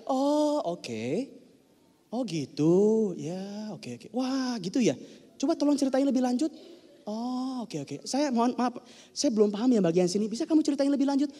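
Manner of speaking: soft, gentle prompting; patient listener. Shown as a demonstration. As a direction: coax the story out kindly. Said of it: "cukup begini aja".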